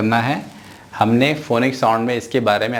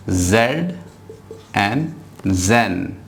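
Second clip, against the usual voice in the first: "एन, ज़ैन" stretched out slowly; slow blending; 2 semitones lower, much slower than usual. Shown as a demonstration. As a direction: draw each sound out. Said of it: "क्या है ये?". (धीरे "एन, ज़ैन")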